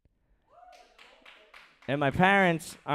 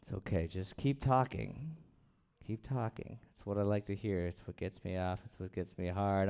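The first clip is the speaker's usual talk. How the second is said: mock seductive; 5 semitones lower, 10 dB quieter than usual. Comic teasing a talking crowd, hushed mock-seductive voice. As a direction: purr it at the chatty crowd.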